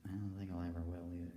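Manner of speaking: quietly sad. Real, not acted.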